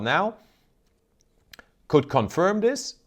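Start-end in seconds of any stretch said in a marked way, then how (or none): 1.9-3.0 slow, higher-pitched phrase stressing "could". Real, not acted. Analyst hedging about exploration results, stress on "could". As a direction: lean on "could" as the key caveat. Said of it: "I stress the word could".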